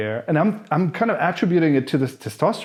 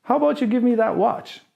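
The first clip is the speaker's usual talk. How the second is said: mock thug demand; 9 semitones higher than usual. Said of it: "he's like".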